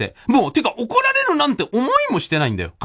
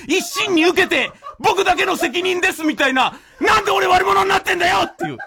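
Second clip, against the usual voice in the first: higher, exasperated laughing rant; 5 semitones higher than usual. Real, not acted. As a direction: vent in mock outrage. Venting at disciple, laughing.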